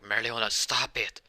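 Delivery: acted angry yell; storming shout. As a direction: shout to call off a fight. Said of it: "he has storms out like".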